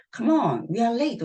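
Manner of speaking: a rushed hostess urging her guest. Acted. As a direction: hurry them along. Acting a hurried character.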